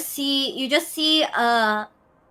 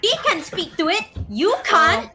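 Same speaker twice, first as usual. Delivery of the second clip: teasing; 9 semitones higher, 6 dB louder than usual. Acted. Teasing retort.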